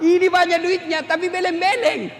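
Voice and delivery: high, loud laugh-through; preacher laughing at his own joke. Real, not acted. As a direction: laugh as you mock the rich fool. Laughing at punchline.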